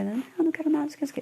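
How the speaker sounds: put-on high, sulky kid's refusal; mother voicing the refusing son; stubborn child. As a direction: pout it out like a cranky child. Child refusing in acted dialogue.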